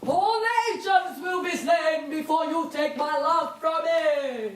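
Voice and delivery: grand theatrical declaiming, shouted; hammy stage actor. Acted. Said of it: "Why is he talking like an actor?".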